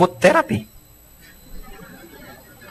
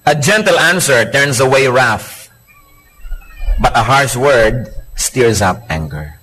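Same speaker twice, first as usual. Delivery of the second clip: slow scripture reading; 3 semitones lower, much slower than usual. Acted.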